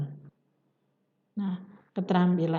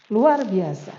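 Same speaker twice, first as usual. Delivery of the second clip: a louder "Luar biasa" with a thumbs up; enthusiastic praise; 6 dB louder than usual. Shown as a demonstration. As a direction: cheer the student on. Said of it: "Nah, ini simbol".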